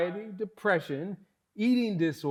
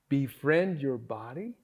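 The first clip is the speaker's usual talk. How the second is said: a laugh on the rising question; amused rising disbelief; 5 semitones lower than usual. Real, not acted. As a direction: laugh at the idea, asking it aloud.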